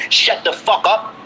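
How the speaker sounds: "Shut the fuck up" drawn out slowly; imitating a rude order, slowed down; slow mock order. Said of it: "tell me".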